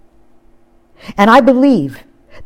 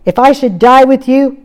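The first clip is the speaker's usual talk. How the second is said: vehement; 6 semitones higher, 5 dB louder than usual. Retold or imitated. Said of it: "even more vehemently".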